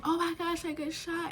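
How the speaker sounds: high-pitched pained wail, acted; mock crying. Wounded son realising he is shot, mock-crying high. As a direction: wail it high without real sobs. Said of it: "He's crying".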